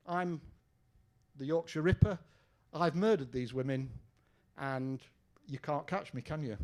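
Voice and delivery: put-on a light Geordie accent on the hoax tape; lightly voiced Geordie hoaxer taunting the police; mild Geordie accent. Hoax caller taunting detectives on tape, light Geordie accent. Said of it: "with an accent from the very north of England".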